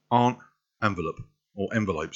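everyday North London English; North London accent. Shown as a demonstration. Reading a word list for viewers, North London accent. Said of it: "word list in a North London accent".

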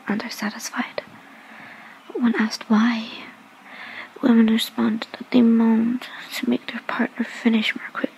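breathy seductive ASMR whisper; sultry whisper. Acted. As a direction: whisper close to the mic, teasing.

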